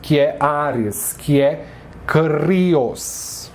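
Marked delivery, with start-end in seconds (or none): 2.0-3.5 "crios" with a tapped r, stress on "os"; Greek pronunciation. Shown as a demonstration. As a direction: say "crios" clearly. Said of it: "Assim que se pronuncia".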